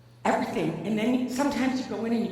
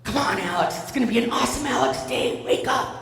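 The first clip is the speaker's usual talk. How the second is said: lightly mimicked chirpy dad wake-up call; singsong morning cheer, lilting upward; cheery; 2 semitones higher than usual. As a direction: play a relentlessly upbeat dad. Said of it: "just cheery as all get out".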